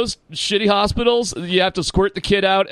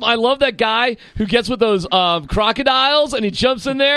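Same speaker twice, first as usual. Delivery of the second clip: gushing American fan; 4 semitones higher than usual. Pretend. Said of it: "You should've been like".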